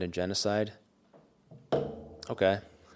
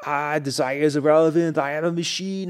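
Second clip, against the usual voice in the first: robotic Terminator; 8 semitones higher, 7 dB louder than usual. Retold or imitated. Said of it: "And he's like".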